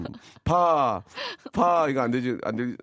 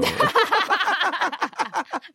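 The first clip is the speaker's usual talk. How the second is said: loud high laugh; 4 dB louder than usual. Real, not acted. Big laugh at joke.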